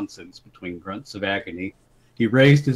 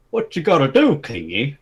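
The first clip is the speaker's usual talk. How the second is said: tall brawler's retort; 4 semitones higher, 3 dB louder than usual. Acted. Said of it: "the tall one said".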